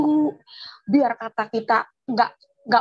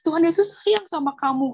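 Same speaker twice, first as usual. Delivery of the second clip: higher-pitched earnest reassurance; convincing assurance; 5 semitones higher than usual. Retold or imitated. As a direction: imitate the neighbour convincing her. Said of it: "dia meyakini saya". (menirukan keyakinan si tetangga)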